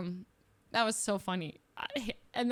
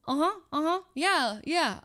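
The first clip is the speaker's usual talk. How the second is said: higher, mock-attentive nodding along; feigned understanding; 6 semitones higher, slower than usual. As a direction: pretend to follow the explanation.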